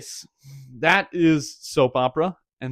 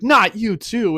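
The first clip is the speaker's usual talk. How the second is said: higher, louder cry of dismay; mock dismay; 7 semitones higher, 7 dB louder, slower than usual. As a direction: play up the exasperated protest. Acted dismay at being pursued again.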